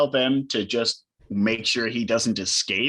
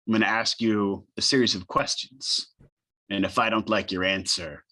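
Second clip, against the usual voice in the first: intimidating interrogator. Acted. Player questioning a pinned assassin, measured intimidation. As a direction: lay out each threat deliberately, with pauses. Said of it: "Always try for an intimidation check".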